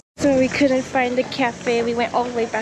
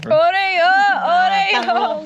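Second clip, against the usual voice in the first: excited shout; 7 semitones higher, 6 dB louder, much slower than usual. Real, not acted. Mom echoes child's excited shout.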